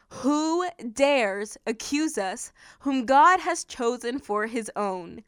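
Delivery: slow, deliberate verse reading; measured scripture reading. Acted. Preacher reading Paul's question to listeners, measured. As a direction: read the verse out slowly.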